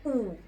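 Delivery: "او" as a rounded "oo"; French OU sound. Shown as a demonstration. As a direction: model "او" as French "ou". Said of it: "ال او يو نطقتها ايه".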